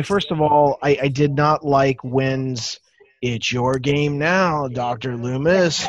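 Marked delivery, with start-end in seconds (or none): 3.2-5.9 slow, drawn-out film villain line; lightly mock a melodramatic movie line, slowly; Wynn. Quotes Wynn's disliked film line.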